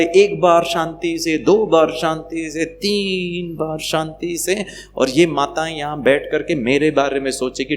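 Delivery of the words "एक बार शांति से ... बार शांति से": high-pitched, stretched-out counting; mock patience. Speaker mimicking us trying calmly thrice, exaggerated patient count. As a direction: count it off, dragging the last number.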